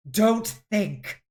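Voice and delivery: sharp rebuke; snapped. Acted. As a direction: cut her off sharply. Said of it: "snapped Yaha Yaha".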